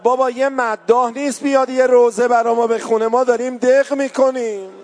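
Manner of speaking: loud, pleading cry of a grieving mother; mother's anguished cry. Retold or imitated. Grieving mother begs for a mourner, crying out loudly. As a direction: call out for a mourner to come. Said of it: "مادر شهیده داد زد".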